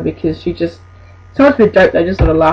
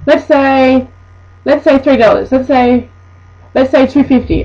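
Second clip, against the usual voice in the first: a lightly higher, pushy haggling voice; a hint of a haggling customer; mock haggling customer; 5 semitones higher than usual. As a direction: wheedle the price down like a pushy shopper.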